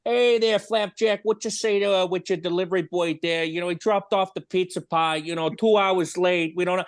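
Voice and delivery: high, goofy prank-call voice; silly prank voice. Retold or imitated. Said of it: "silly voices constantly".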